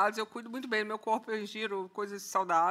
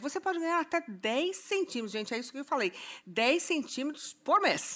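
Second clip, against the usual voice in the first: higher, upbeat product pitch; infomercial; 3 semitones higher than usual. Acted. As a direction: push the product like a TV ad. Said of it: "cheirinho de merchan". (garota-propaganda de merchan)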